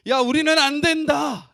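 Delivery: slow, high, loud despairing cry; loud mock wail. Israelites weeping all night in despair, loud slow wail. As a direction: wail it out like the whole camp is weeping. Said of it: "밤새도록 통곡하는 거예요".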